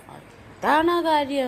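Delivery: dragged out slowly through crying; slow tearful reply. Real, not acted. Child explaining why she cried, slow and tearful. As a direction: sob the words out slowly. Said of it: "എന്തിനാ കരഞ്ഞതെന്ന് പറ".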